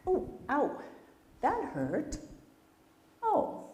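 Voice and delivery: high wounded ow; hurt moose. Acted. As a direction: sound stung and let down.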